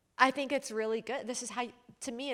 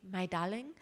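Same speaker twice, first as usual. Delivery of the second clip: sweet "My darling"; 2 semitones lower than usual. Retold or imitated. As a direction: say "My darling" sweetly, like a loving husband. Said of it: "it would be a sweet".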